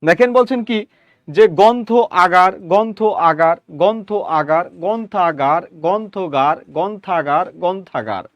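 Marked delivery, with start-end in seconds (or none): 1.3-4.6 গ্রন্থ আগার as two distinct words with a gap; separate words. Shown as a demonstration. Teacher demonstrating গ্রন্থ আগার apart. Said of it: "আপনি দ্রুত উচ্চারণ করতে গিয়ে দুইটা শব্দ একসাথে". 4.8-8.2 গ্রন্থাগার run together as one word; blended quickly. Shown as a demonstration. Teacher demonstrating fast গ্রন্থাগার. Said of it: "আপনি দ্রুত উচ্চারণ করতে গিয়ে".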